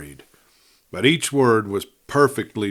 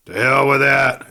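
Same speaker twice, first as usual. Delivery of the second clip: louder, higher scornful retort; sneering refusal; 4 semitones higher, 7 dB louder than usual. A narrator's reading. Dying outlaw waving off advice to rest, sneering. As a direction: brush off their mercy with a sneer. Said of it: "with a faint shadow of his old sneer".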